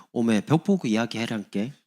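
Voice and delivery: imitating a Jeolla speaker; Jeolla dialect. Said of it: "경상도 상대 만났을 때 전라도". (전라도 사투리로)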